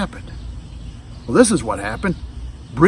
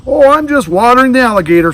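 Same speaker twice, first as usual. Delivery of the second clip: put-on boy's voice; 8 semitones higher, 8 dB louder, faster than usual. Boy answers mother casually.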